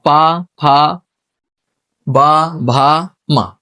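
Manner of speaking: "पा, फा, बा, भा, मा" formed on the lips; lip sounds. Shown as a demonstration. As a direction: sound out "पा, फा, बा, भा, मा" syllable by syllable with both lips. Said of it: "पा वर्ग बोलेंगे ओंठों से".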